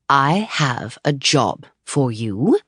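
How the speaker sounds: slow, drawn-out manager voice; dramatic pause. Acted. Manager teasing the writer with big news, slow. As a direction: hold back the news to build suspense. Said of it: "pausing for effect".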